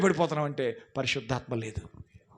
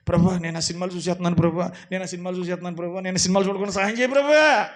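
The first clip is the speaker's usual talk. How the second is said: fast, gabbled prayer that ends loud; mock hurried prayer; 2 semitones higher, 3 dB louder, faster than usual. Preacher imitating believers praying while sinning, fast and mocking. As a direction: rattle off the plea, then cry out the end. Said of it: "కొంతమంది ఇప్పటికిని".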